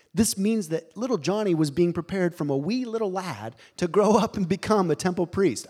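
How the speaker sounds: a hint of Scottish brogue slipped into the preaching; lightly put-on Scottish lilt; light Scottish accent. Preacher telling of little Johnny in a light Scottish accent. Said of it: "I don't know why I'm talking Scottish right now".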